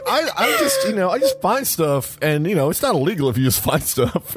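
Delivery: high, nervous little excuse that settles down; mock flustered excuse. Thief to the reporter, defending selling stolen goods, flustered and high.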